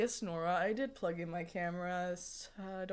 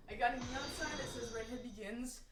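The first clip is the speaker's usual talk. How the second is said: whisper; 3 semitones higher, 9 dB quieter than usual. Real, not acted. Streamer confides about her sign.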